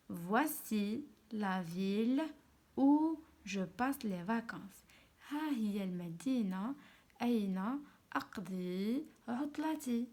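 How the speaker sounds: slow, deliberate reading with translation; dictation-style reading. Shown as a demonstration. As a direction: spell out each phrase slowly for pupils. (قراية بشوية، جملة بجملة)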